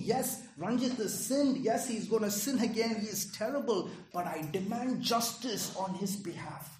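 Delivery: firm demand. Retold or imitated. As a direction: demand justice before the judge with weight. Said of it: "He is demanding justice for you".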